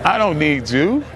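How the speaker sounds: a real burst of contempt at the critics; angry outburst. Real, not acted. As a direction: shove them out the door with it. Telling off critics who can't take it.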